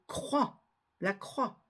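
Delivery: croix ending on the "wa" vowel; la croix as "la krwa", X silent; silent final X. Shown as a demonstration. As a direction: say croix with no X at the end. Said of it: "on ne la prononce pas".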